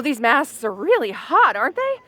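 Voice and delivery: breathing hard under a mask; stuffy, short of breath under a mask; hot under a mask. Acted. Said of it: "I can barely breathe".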